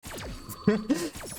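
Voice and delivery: short, quiet rising chuckle; short laugh. Real, not acted. Streamer amused while watching, short soft laugh. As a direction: let out a small, soft chuckle.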